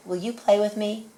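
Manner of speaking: hopeful asking. Acted. Child asks animal to play.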